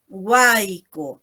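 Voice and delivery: "Huaico" said as WAI-co, with an i glide; pronunciación de muestra. Shown as a demonstration. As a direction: model the word "Huaico", its y sounded as i. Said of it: "¿Cómo lo pronunciamos?". ("Huaico" pronunciado guai-co, con sonido i)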